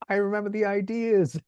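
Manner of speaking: high pitched, delighted recall; imitating excited friend. Old friend remembering the bedroom, high excited voice. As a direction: squeak it out like an amazed buddy.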